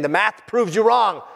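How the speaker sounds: taunting. Acted. Opponents taunting Jesus.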